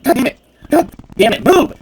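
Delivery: high, loud outburst of real rage; screaming at a blocking NPC in frustration; furious shout. Real, not acted. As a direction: yell it at the screen, fed up. Enraged at stuck game character.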